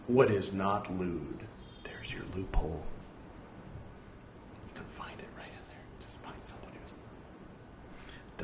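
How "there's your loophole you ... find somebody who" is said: conspiratorial whisper, a sly joke; whispered aside. Real, not acted. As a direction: lean in and whisper the loophole. Joking aside about the rule.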